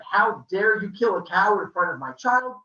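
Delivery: loud, indignant acted retort; angry yelling. Maya yelling back at Apollo about her child, indignant. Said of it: "they're yelling back and forth".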